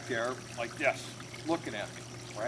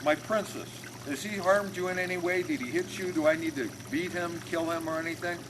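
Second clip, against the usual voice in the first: protective father; 5 semitones higher than usual. Retold or imitated. Protective father questions his daughter.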